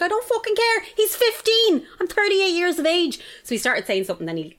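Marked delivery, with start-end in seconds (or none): 0.0-3.2 high-pitched, exasperated retold outburst; indignant retort. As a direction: re-enact a heated comeback, pitched well up. Retold row with teenager on bus.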